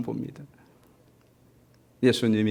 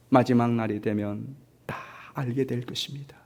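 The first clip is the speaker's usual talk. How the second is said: whisper; 4 semitones lower, 6 dB quieter than usual. Acted. Preacher drops to whisper.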